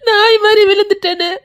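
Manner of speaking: tearful keening; sobbing lament; crying lament. Acted. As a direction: wail as you mourn. Lamenting over the departing girl.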